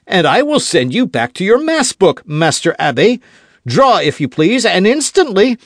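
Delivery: high, loud challenge; duel challenge. Acted. D'Artagnan challenging Aramis to draw, loud. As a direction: demand he draw at once.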